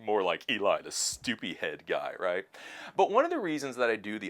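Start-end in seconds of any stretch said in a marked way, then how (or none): 0.0-2.1 sneering, laughing mock voice, high and loud at the start; hammed-up taunt from smug commenters; mocking critics. Vlogger voicing commenters laughing at him, loud sneering mock. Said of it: "They're like".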